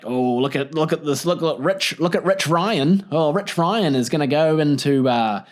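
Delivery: lightly put-on voice scoffing at a rich guy; hammed-up, gossipy commentary on a rich man; mocking onlooker. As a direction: put on a mock-impressed character voice. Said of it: "a really rich guy and he's like".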